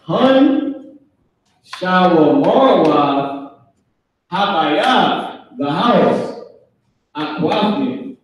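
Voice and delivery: sisters speaking Hebrew, "shawa marwa" drawn out; voicing a sister. One sister telling the others where the husbands are, slow and deliberate. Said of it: "The sisters would say".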